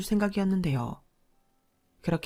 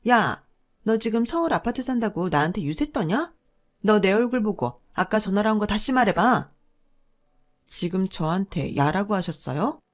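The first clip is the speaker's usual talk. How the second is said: jabbing, scolding sister-in-law. Acted. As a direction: point your finger and lord it over her. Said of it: "삿대질을 하며 이러더군요".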